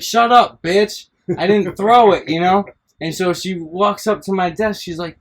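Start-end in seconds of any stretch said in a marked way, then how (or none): 0.0-2.3 retold snap back. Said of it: "So I was like".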